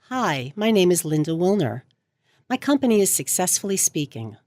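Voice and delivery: confident self-introduction with no uptalk. Shown as a demonstration. Coach showing clients an introduction without uptalk, confident. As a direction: introduce yourself like you know what you're talking about. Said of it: "doesn't sound as confident as".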